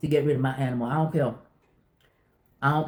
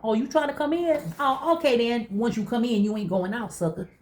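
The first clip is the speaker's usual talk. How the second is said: talking to a dog; 7 semitones higher than usual. Retold or imitated. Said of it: "And I said".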